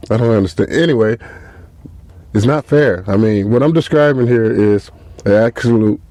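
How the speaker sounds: ordinary talk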